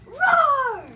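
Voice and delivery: loud, high monster king roar. Acted. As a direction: roar to claim the throne. Max roars as monster king.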